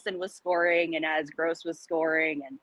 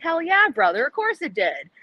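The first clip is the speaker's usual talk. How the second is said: higher, louder mock bravado; hammed-up bro cheer; 8 semitones higher, 4 dB louder than usual. Fan answering coworkers about the win, hammed-up cheer. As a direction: throw it out like a proud fan. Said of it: "I'm like".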